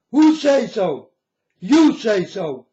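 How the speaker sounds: loud, slow rebuke; indignant challenge; scolding. Real, not acted. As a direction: punch it at the crowd. Scolding the audience.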